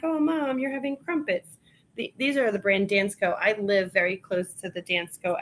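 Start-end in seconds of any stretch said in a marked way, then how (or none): 0.0-1.6 high, softening affectionate tease; affectionate tease to mom; fond teasing. Retold or imitated. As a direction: coo it fondly at mom. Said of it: "I'm like".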